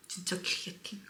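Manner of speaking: hushed whisper of delight. Real, not acted. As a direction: breathe it out in awe. Savoring the bite, hushed. (감탄하며 속삭이듯)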